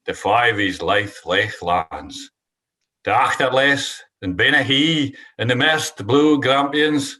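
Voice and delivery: reciting a Scots poem; slow, measured poetry reading; poem recital. Acted.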